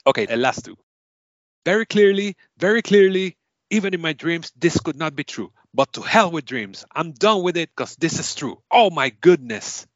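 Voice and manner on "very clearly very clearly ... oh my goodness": overwhelmed acceptance speech. Acted. Game host acting a stunned award winner, mildly overwhelmed. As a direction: marvel that it is true.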